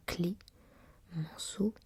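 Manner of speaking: Clé, Manceau whispered as two parts, Clé then Manceau; split pronunciation. Shown as a demonstration. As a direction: break Clémenceau into Clé and Manceau. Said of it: "la prononciation du patronyme du tigre soit".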